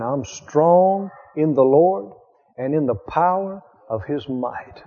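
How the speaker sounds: slow, steady confession led gently; slow firm confession. Retold or imitated. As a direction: lead the sick woman slowly. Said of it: "I said it again".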